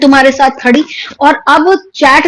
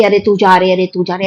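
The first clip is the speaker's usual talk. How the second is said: a limp, flat and softer अरे, तू जा रे; mimicking a wrong reading; 5 semitones lower, 4 dB quieter than usual. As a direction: toss off अरे, तू जा रे quietly with no drama. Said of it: "ऐसे नहीं पढ़ते".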